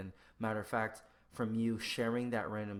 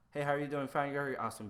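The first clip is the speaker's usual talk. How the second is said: automatic small talk; 5 semitones higher, 4 dB louder, faster than usual. Acted. Mocks an automatic greeting exchange.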